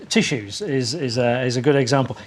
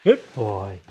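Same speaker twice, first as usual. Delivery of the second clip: praise; 6 semitones lower, 3 dB quieter than usual. Shown as a demonstration. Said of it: "So he gets good boy for stopping".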